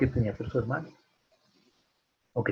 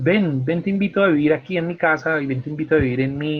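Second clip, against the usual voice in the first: raised, louder beckoning; eager mock invitation; 4 semitones higher, 5 dB louder than usual. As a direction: invite insistently, voice lifted. Acts out an invitation to live. (invitación insistente, imitada)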